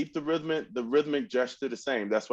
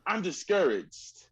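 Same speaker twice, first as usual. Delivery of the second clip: mock discouraged; 5 semitones higher than usual. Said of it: "you don't say to yourself".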